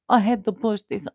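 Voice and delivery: loud strained cry while pushing; straining cry. Real, not acted. Pushing the device while live, strained cry. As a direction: grunt it out with effort.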